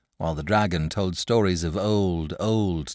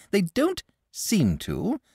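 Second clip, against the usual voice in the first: put-on slow, higher dragon voice echoing the boy; 12 semitones higher, slower than usual. Dragon echoes the boy's complaint, slow creature voice. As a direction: repeat his words in the creature's voice.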